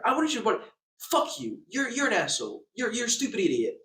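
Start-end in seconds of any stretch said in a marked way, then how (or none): 1.0-1.6 mock hushed threat. Shown as a demonstration. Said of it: "That's a threat". 1.7-3.8 louder, higher mock insults tossed off to show a threat; mock insult demo. Shown as a demonstration. Ranting guest showing the hotel what a real threat is, mock angry. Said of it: "That's a threat".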